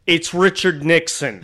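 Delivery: slow, emphatic put-down; disgusted insistence. Retold or imitated. Gruff woman to the clueless man, slow withering insistence. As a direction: spell it out for an idiot. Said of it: "gave him another dirty look and was like".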